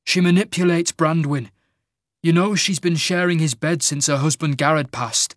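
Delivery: a son warning his father; lightly voiced young king Magnar. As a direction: press the point with restrained urgency.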